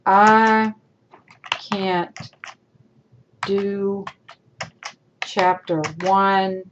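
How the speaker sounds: terse, careless email read out slowly; curt poor example. Shown as a demonstration. Teacher reading a student's careless email aloud, terse. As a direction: read it like a lazy, disrespectful email. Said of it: "poor example".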